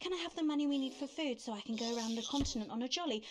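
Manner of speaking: quick, slightly high mimicry; lightly mock a breezy scrounger, rattled off fast; mock cheeky request. Mocks Susie asking for money.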